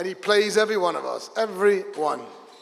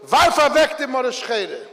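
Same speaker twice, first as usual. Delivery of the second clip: slow, loud and raised; shouted; 5 semitones higher, 3 dB louder, slower than usual. Retold or imitated. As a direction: boom it out to the crowd. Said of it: "the Rebbe shouted".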